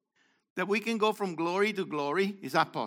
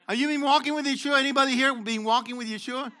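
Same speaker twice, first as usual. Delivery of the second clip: Yeshua question pushed higher, louder and quicker; rally the room with a louder, faster ask; louder, faster repeat; 4 semitones higher, 3 dB louder, faster than usual. Shown as a demonstration. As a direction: prod a silent crowd with the line again. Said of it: "Come on, wall".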